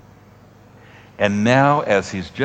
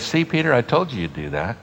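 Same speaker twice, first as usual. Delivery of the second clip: smug told-you-so; 4 semitones higher, faster than usual. Pretend. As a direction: pitch jumps up, a mocking gloat. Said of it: "The first thing I'd probably say".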